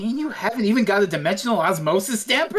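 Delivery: quick hammed-up German accent; mock German accent, fast. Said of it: "Please don't do a German accent ever again".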